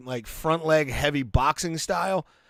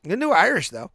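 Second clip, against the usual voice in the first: high teasing; 4 semitones higher, much faster than usual. Real, not acted.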